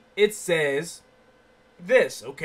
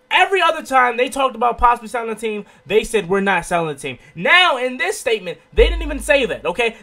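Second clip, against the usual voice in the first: excited; 3 semitones higher, 7 dB louder than usual. Real, not acted. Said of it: "I'm all over the place because I'm so surprised".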